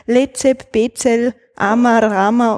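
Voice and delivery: Lezep, Bezel, Amar, label words reversed; Amar, Rama said back to front; spoken backwards. Shown as a demonstration. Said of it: "sagt es einmal rückwärts".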